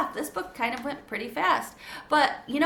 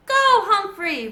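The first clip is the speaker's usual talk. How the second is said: slow, high, loud cheer; shouted; 10 semitones higher, 9 dB louder, slower than usual. A narrator's reading. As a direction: shout encouragement across the driveway. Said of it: "Rosie and Joey shouted".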